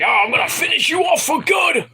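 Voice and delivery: high, strained wrestler threat; mock shouted threat. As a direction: imitate a villain yelling a threat. Acting out wrestler threatening opponent.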